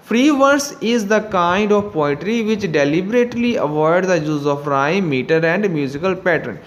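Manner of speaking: slow, careful reading of the instruction; slow textbook reading. Acted. Teacher reading the book to students, slow and careful. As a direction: read it out slowly for the class. Reads textbook definition aloud.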